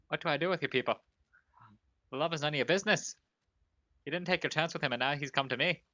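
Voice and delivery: put-on Scottish accent. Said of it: "my terrible Scottish accent".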